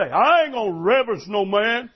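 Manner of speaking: defiant woman. Retold or imitated. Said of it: "some women will say".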